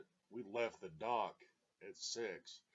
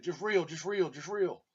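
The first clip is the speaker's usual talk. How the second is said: imitating the mate yelling, higher and louder; mock shouting mate; 8 semitones higher, 11 dB louder than usual. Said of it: "The mate is down on the deck saying".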